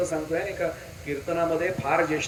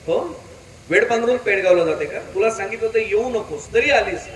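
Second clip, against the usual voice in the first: raised, accusing rebuke; acted scolding; 2 semitones higher, 4 dB louder than usual. Husband accusing his wife at home, acted scolding. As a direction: take her to task for disobeying.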